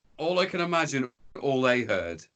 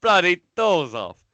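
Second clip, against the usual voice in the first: louder, higher Cockney film-star voice; Michael Caine impression; 6 semitones higher, 7 dB louder than usual. Friend quoting the famous film line in a loud, higher Cockney voice. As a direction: quote it like the actor, big and Cockney. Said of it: "It's like".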